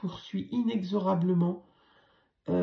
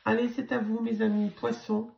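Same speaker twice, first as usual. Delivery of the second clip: raspy, worn-out voice; talking through a hoarse throat; 3 semitones higher than usual. Real, not acted. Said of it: "ma voix éraillée".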